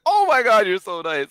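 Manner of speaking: imitating a giddy girl; gushing girl. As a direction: squeal out the thanks. Imitating Perona's delighted reply.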